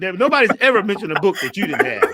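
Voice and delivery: loud laughing tease. Real, not acted. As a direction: laugh through the line. Teasing friend, both laughing.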